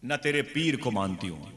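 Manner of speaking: high, loud angry defiance; acted marital tirade; scolding wife. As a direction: berate him as a furious wife. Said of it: "बीवी ने बहुत डांटा है".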